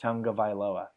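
Tagovailoa repeated as "tung-guh-vai-LO-uh"; demonstrated pronunciation. Shown as a demonstration. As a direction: say Tagovailoa clearly with an "ng" sound in the first part. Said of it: "That's how you pronounce his name".

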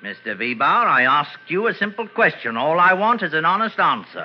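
put-on English police accent, polite and proper; a crook faking an English accent to pass as a police sergeant; fake English accent. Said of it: "What became of your English accent?".

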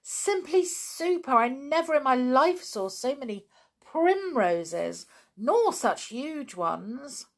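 high, thrilled gushing; gushing delight. Acted. Anne marvelling at the huge primroses, high and thrilled.

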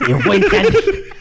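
cartoon duck lisp, laughing; hammy slobbery duck voice; Daffy Duck voice. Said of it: "E o Patolino?". (voz de Patolino)

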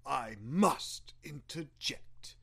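hushed, breathy whisper. Acted. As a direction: lean in and whisper it. Announcer interrupting the news.

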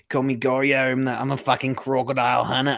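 playful, hammed-up Aussie boast; Australian accent. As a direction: bumble through a broad Australian croc-hunter voice. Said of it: "Your Australian accent is so good".

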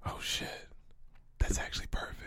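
hushed, whispered realization; awed whisper. Real, not acted. Podcaster struck by friend's perfect description, awed whisper. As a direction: whisper it as it sinks in.

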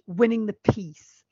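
slow hushed whisper. Real, not acted. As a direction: breathe the phrase for drama. Dramatic whispered point.

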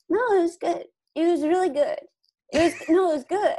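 a manager softening the blow after a bombed set, overly reassuring. Retold or imitated. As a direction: sell the bad news gently as the manager. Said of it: "a way of delivering this news".

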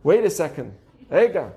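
a hint of a blunt Israeli; mildly brusque Israeli "wait"; Israeli-style interjection. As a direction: cut in firmly, lightly playing an Israeli. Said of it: "If you're Israeli".

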